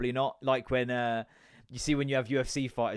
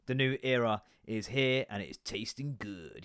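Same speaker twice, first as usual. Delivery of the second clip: ad read; slower than usual. Shown as a demonstration. Reads ad copy off can.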